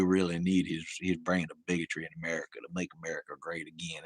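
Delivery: mock Texan politician in a thick Southern accent. Host parodying Texas Republicans on voting, hammed-up Southern accent. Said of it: "the Southern accent there. I don't know why".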